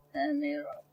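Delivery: very low, soft grumble. Pretend. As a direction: drop the voice deep down. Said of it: "I wanna run".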